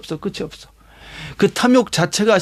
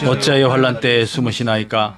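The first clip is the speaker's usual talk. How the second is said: low, monotone congregational reading; scripture reading; 8 semitones lower than usual. Acted. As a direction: recite the verse evenly on a low note. 성경 구절을 함께 낭독. (낮고 단조로운 성경 낭독)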